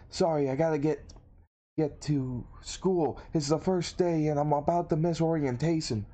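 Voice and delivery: hurried apology. Acted. Student excusing himself to a girl, late, flustered.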